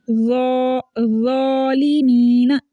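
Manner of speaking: ज़ालिमीना slow, with rounded "zaw"; mouth-filling heavy Z. Shown as a demonstration. Teacher showing a full reading, mouth-filling "zawlimeena". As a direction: stretch ज़ालिमीना with a thick Z. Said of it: "मुंह भर के पढ़ा जा रहा है".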